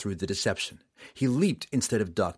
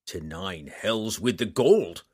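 yelled; slower than usual. Acted. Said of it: "Roddy yelled".

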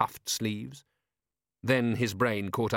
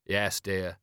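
meekly dutiful husband; understated henpecked compliance; 3 semitones lower than usual. Acted. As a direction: answer like a resigned, obedient husband. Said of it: "You're using your henpecked voice".

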